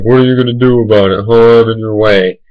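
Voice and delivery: fast, cocky dog voice; taunting dog. Retold or imitated. Big dog blocking the road taunting the driver, fast cocky voice. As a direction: voice the dog taunting you, quickly. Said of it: "he was like".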